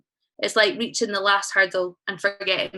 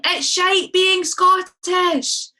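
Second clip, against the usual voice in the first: drawn-out, high, louder cry; mock shout; 9 semitones higher, 4 dB louder, much slower than usual. Poet shouting her despair into a mountain abyss. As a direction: bellow it slow into the void. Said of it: "It's like shouting".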